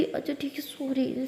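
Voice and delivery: hushed, placating; soft apology. Acted. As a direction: give in quietly with a small sorry. Apologising softly to upset partner.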